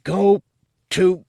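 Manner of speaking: choking out a curse while pinned to the wall; gasped out. Acted. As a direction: force the words out with no air. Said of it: "he gasped out through constricted lungs".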